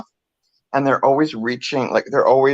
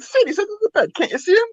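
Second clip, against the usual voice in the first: put-on much higher, impatient old lady; exasperated grandmother; faster than usual. Grandmother insisting to her son, higher and impatient. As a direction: play the cranky grandma. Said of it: "And she's like".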